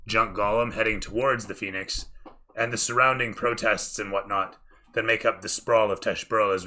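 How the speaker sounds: animated, projected scene-setting; dramatic tabletop storytelling; game master narration. Acted.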